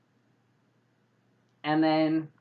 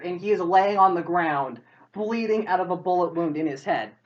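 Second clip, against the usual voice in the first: normal talking voice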